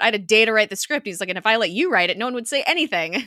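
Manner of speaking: quick indignant retort, hammed up; lightly acted self-justifying protest; defensive comeback. Acting Coulson's defensive comeback.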